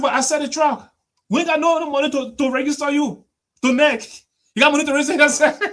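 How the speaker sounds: high, loud, fast and fed up; exasperated chairman. Retold or imitated. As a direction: play the broke party boss venting. Weah complaining about no money.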